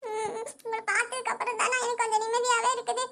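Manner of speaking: relieved words breaking into long sobs; sob, speak through it, keep sobbing. Acted. Sister relieved at seeing her brother, sobbing. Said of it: "புள்ள இப்படி அழுகுறாளே".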